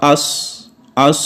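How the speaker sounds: اس with the s fading on steady air; اس with a soft fading hiss; breathy s. Shown as a demonstration. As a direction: let the s of اس trail away. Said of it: "ہاتھ کو ہونٹوں کے قریب کریں گے".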